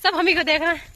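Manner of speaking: fighting a fit of giggles while carrying a heavy pot; real laughter breaking into the words; giggly. Real, not acted. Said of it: "मुझे हंसी नहीं रुक रही है".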